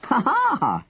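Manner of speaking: high, triumphant exclamation; delighted cry. A narrator's reading. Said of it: "Henry cried".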